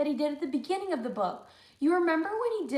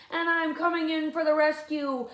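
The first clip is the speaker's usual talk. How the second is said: eager rescuer; 5 semitones higher, 6 dB louder than usual. Acted. Luther rescuing.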